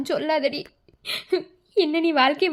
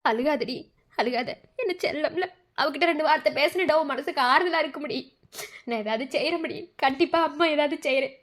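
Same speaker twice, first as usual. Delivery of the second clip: tender comforting. Acted. Mother consoles her weeping daughter, tender comforting. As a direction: hush and reassure a crying child.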